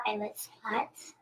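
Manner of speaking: slow whispered words; whispering. Real, not acted. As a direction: whisper it slowly. Child whispers line slowly.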